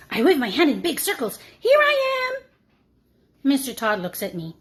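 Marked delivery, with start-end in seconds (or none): 1.6-2.3 high, louder excited cry; eager shout. Acted. Annie volunteering to teacher, high excited call. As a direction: wave and call out to be picked.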